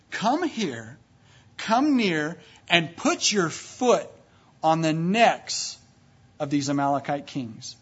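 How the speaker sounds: slow, firm, emphatic order; commanding. Acted. Joshua summoning his commanders, slow and commanding. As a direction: deliver it as a weighty, spaced-out command.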